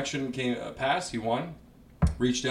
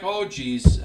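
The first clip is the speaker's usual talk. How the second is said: higher, a touch louder; a light Doug Ford voice, surprised; Doug Ford impression; 6 semitones higher, 4 dB louder than usual. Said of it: "he does a Doug Ford impression".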